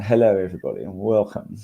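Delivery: posh voice. Shown as a demonstration. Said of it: "put on your posh voice".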